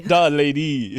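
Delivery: high, loud, announcing the title; grand announcer voice. Shown as a demonstration. Repeating the girlfriend's nickname, grandly announced. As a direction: present the lady like a herald. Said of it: "I call her the lady".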